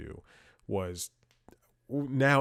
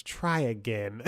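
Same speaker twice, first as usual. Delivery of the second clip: put-on slow African-accented instruction; drawn-out mock African accent; imitated African accent; slower than usual. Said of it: "guy with an African accent".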